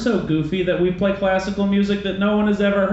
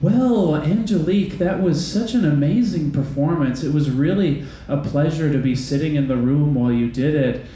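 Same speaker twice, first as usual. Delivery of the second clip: creepy syrupy host; 3 semitones lower than usual. Retold or imitated. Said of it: "silky smooth, syrupy, actually a little bit creepy voice is like".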